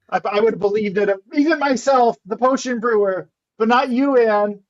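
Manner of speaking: hammed-up disbelief; mock screaming. Potion brewer disappointed in Anne, mildly mock screaming. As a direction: act scandalised, pitch jumping on key words. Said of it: "just be screaming".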